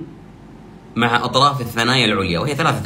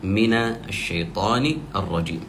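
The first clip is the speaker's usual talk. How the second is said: slow recitation; 4 dB quieter than usual. Shown as a demonstration. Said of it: "هذه جملة الاستعاذة".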